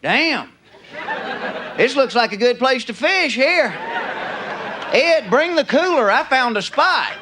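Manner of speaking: hammed-up Southern country drawl; mock Southern yokel, drawn out at the end; Southern accent. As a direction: play an uncool Southerner in a thick accent. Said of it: "You can't do that with a Southern accent".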